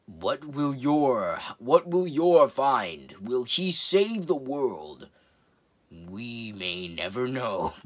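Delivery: slow, dramatic movie-trailer voice; a light hammed-up trailer narrator; Tom Cruise as trailer narrator. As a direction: drag it out like an epic trailer tease. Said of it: "Tom Cruise says".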